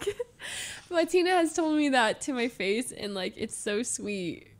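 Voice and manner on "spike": high, loud imitation of tearful wailing; hammed-up weepy cry; mock crying. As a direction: wail it as if crying mid-game. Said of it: "And she's crying".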